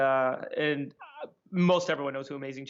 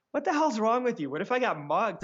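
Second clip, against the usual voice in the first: raised, higher-pitched mock protest; retold exasperation; 6 semitones higher, 3 dB louder than usual. Comic telling off his prankster friend, exasperated retelling. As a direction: reenact scolding a friend, pitch jumping at the start.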